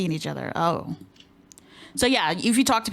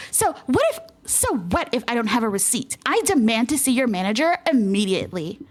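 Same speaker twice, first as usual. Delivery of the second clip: entitled customer; 2 semitones higher than usual. Acted. Customer demanding refund from clerk.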